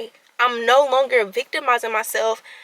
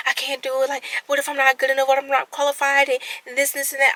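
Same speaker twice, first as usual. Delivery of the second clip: retold self-doubt; 3 semitones higher, faster than usual. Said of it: "I'm stuttering".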